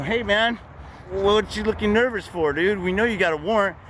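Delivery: lightly voiced cop needling a suspect. Cop on the curb accusing him, lightly mimicked.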